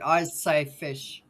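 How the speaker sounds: "I say fish." very slow and deliberate, each word drawn out; insisting on fish. Shown as a demonstration. Denying the accent and saying fish slowly and carefully. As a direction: spell out "I say fish." slowly to prove the point. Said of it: "No, I don't".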